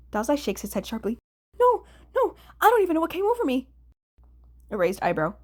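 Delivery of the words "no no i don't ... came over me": much higher, fast flustered denial; frantic denial. Acted. Atsushi to Kunikida, fast high flustered denial. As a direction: rush the denial out.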